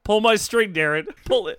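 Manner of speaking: high, loud eager begging; excited pleading. Acted. Begging Darren to pull the string.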